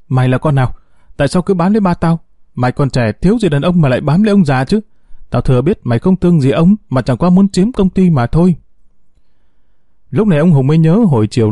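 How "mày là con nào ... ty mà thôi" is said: higher, fast furious accusation; screaming. Acted. Daughter screaming at the young woman, higher and fast. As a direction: hurl the accusations fast and high. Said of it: "miệng gào lên".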